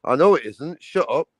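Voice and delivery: lightly voiced bored friend, rising to a shout on tits; a hint of Jens waving the plot away; mock impatience, half-shouted at the end; impatient Jens. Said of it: "Jens is gonna be sitting there going".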